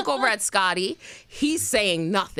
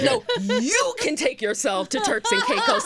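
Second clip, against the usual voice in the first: mad; 8 semitones higher than usual. Retold or imitated. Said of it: "Oh, I was so mad".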